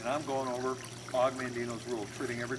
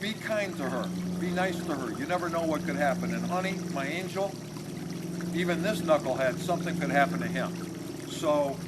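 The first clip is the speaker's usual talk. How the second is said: insistent fatherly advice; 3 semitones higher, 4 dB louder than usual. Retold or imitated. Father urges couple to be kind.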